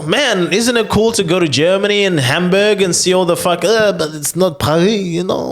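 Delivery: mock French snob. Mocking a French person's snobbery.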